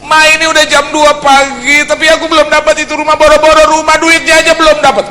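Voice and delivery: high, loud, pleading rush at Mom; panicked son calling Mom at 2 a.m; high-pitched loud desperate whine; frantic complaint. Retold or imitated. Son complains to mother late night.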